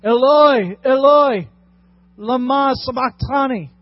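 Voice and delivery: loud cry. Acted. Jesus on the cross crying out to God, loud anguished cry. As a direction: cry it out to heaven in agony. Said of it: "Jesus cried out in a loud voice".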